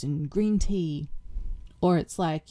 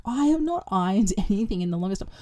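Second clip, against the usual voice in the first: laughing; 2 semitones higher than usual. Retold or imitated. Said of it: "And I'm like".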